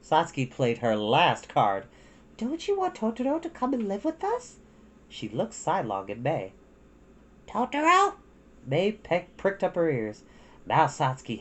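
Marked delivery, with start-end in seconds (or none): 2.4-4.6 put-on high, teasing child; sly girl voice. A narrator's reading. Satsuki's last card. 7.5-8.2 high, rising surprise; excited little girl. A narrator's reading. Mei perks up.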